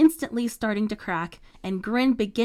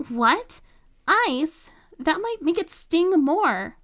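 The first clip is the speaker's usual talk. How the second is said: alarmed squeal; 8 semitones higher, 4 dB louder, slower than usual. A narrator's reading. Chloe recoils at ice offer.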